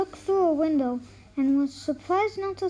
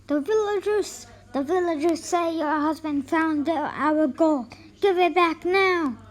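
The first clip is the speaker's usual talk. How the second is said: louder, threatening robbers' demand; angry yelling; 3 dB louder than usual. Acted. Robbers yell at the wife to return the gold. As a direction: bark it at her like robbers. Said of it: "began yelling angrily".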